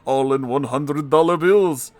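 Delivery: high, loud cackling villain; insane vampire gangster. Acted. Vampire gangster taunts Garfield with a ransom demand, loud crazed voice. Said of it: "That is a really insane voice I just did".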